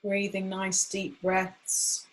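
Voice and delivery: gentle meditation voice, long pauses between phrases; guided meditation. Acted. Guide settling a group into acupressure practice, calm and unhurried. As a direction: guide them gently, leaving room to breathe.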